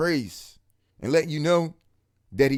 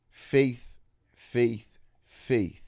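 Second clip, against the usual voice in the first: voice of God; 3 semitones lower, much slower than usual. Retold or imitated. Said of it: "he said it three times in my ear".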